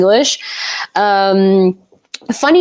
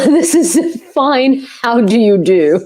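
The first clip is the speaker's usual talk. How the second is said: mock posh English. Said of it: "Cor Blimmy".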